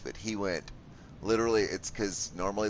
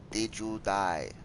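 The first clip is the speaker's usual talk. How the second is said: slow teasing question; 3 semitones higher, slower than usual. Acted. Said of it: "teasing rhetorical".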